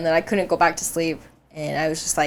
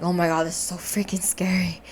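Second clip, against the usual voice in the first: whisper; 5 dB quieter than usual. Retold or imitated. Scared after slamming the door.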